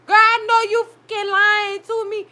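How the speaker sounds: high, incredulous accusation; disbelieving outrage. Real, not acted. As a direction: call out the lie, stunned. Disbelief at the show.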